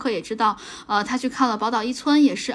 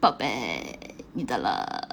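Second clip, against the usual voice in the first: very low, soft, creaky vocal fry voice; 13 semitones lower, 7 dB quieter than usual. Speaker repeats the phrase for the other host, in a vocal fry voice. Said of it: "气泡音我".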